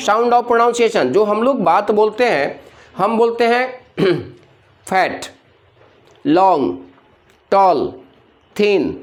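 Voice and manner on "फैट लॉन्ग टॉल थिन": फैट, लॉन्ग, टॉल, थिन each said as one unbroken beat; unbroken single syllables. Shown as a demonstration. Teacher showing students words that do not break, in unbroken single syllables. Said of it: "ये word break हो रहा है?".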